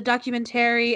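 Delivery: "documentary" ending like "Terry"; odd pronunciation. Retold or imitated. Retelling a classmate's talk, odd pronunciation. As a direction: mimic "documentary" with an unreduced "-tary". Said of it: "kept pronouncing documentary really weird".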